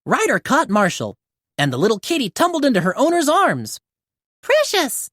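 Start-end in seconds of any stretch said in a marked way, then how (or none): 4.4-5.1 high, joyful call of the name; relieved exclaim. Acted. The girl catching her kitten, calling out happily. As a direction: cry out in relief. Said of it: "the girl exclaimed".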